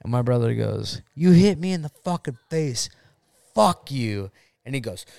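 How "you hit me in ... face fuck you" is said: higher-pitched accusing quote; retold outrage. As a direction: act out a brother's indignant accusation. Brother confronting ex acted out.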